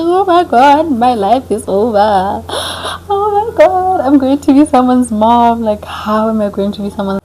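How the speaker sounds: high panicked cries; mock panic. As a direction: replay the panic, pitch jumping up. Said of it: "I'm just thinking".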